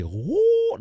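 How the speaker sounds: a sudden high vocal flourish; high falsetto whoop. Retold or imitated. Imitating the singer's six-voice run, high falsetto whoop.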